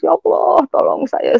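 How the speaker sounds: re-enacted tearful plea, high then sinking away; crying. Abandoned wife begging God for help on the beach, crying. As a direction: cry out high, then let it collapse. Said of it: "Jam tiga pagi saya menangis di situ".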